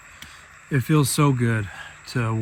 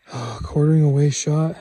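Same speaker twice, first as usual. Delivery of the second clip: excited; 4 semitones higher, 4 dB louder, faster than usual. Real, not acted. Excited about the shot placement.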